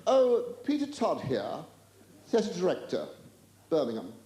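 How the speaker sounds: Peter Todd's affected high voice, falling away; high-pitched caller. Acted. Theatre director introducing himself by phone, high-pitched. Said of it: "this high-pitched voice came through".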